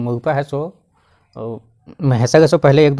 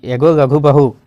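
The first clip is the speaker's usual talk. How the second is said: louder call, slowing on the name; 4 dB louder than usual. Retold or imitated. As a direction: call her name across the yard. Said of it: "Raghu की बीवी को चिल्लाने लगी".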